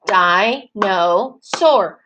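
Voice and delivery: "Dinosaur" very slowly, one beat per syllable; teacher chanting "Dinosaur" syllable by syllable; clapped-out syllables. Shown as a demonstration. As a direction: split "Dinosaur" into three spaced chunks.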